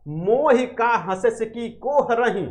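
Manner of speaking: measured, drawn-out recitation of the line; slow verse recital. Retold or imitated. Teacher reciting Jayasi's line to the class, slow and measured. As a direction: recite it slowly, weighing each word. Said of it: "तब जायसी ने कहा".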